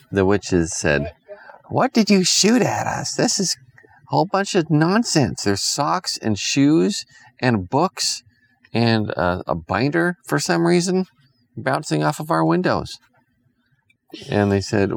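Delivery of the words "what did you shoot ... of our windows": lightly voiced witch. Witches complain.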